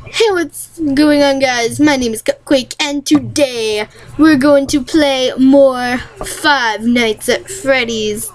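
drawn-out friendly greeting; Cupquake intro. Retold or imitated.

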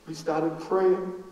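slow, hushed mourning; grief. Real, not acted. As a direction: let the loss slow every word. Grief-struck retelling.

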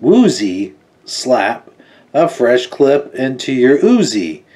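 slow, weighty poem recitation; dramatic card read. Acted. Reviewer reciting the villain's poem from the card, slow and dramatic. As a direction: savour each line of the bad poem.

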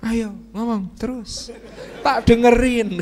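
drawn-out patient humouring; unbothered husband. Acted. Husband lets angry wife keep talking, unbothered indulgence. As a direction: humour them, stretching the words. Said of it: "Biasa aja".

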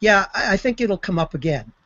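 mildly dry retold reply. Astronaut answering crewmate's check on the photo, mildly dry. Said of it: "Anders kind of dryly says".

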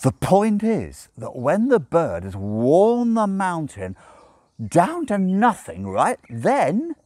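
put-on urgent drunken demon pressing on. A narrator's reading. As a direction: insist urgently, deliberate. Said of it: "said Crowley urgently".

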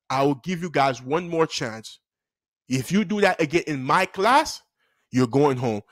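measured final warning; stern teacher. Retold or imitated.

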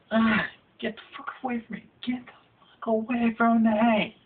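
high, fast, frantic swatting yell; panicked yell. Acted. Bitten guy yelling at the mosquito, high and rushed.

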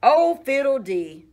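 loud, high brushing-off exclamation; dismissive scoff. Acted. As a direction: wave their fuss away. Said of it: "Miss Wishy-Washy said".

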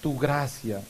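measured, solemn prayer intentions; liturgical prayer. Real, not acted. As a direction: lead the congregation in prayer. Leads prayers of the faithful.

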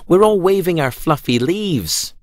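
lightly voiced happy carrots; carrots' voice. A narrator's reading. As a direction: sing it out like playful carrots. Carrots answer Pumpkin.

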